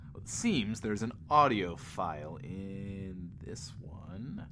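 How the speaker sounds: hushed aside to the listeners; soft, breathy conspiratorial whisper. Acted. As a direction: whisper it like sharing a secret. Host leans in conspiratorially.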